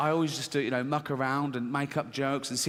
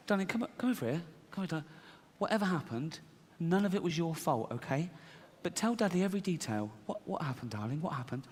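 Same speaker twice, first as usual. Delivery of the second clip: coaxing father; 3 semitones higher, 6 dB quieter than usual. Acted. Father coaxing his daughter.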